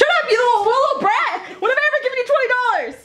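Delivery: high, hammed-up scolding; mock angry mom. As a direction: shriek at the brat, half-joking. Mom yelling at brat in skit.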